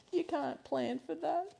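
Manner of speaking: slow, laughing through onion tears; laughing at her own watering eyes. Real, not acted. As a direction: giggle the words out.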